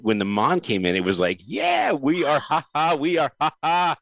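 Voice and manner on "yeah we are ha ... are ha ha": laughing reply. Retold or imitated. Voicing Jamaican audience reply.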